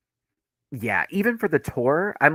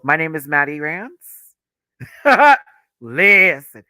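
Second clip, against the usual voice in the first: excited; 4 semitones higher, 12 dB louder, slower than usual. Pretend. Fantasy mic moment, louder.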